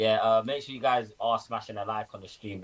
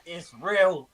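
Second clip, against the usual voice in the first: giddy relief; 7 semitones higher, slower than usual. Retold or imitated. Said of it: "And I was like".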